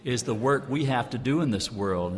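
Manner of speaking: ordinary talk, nothing marked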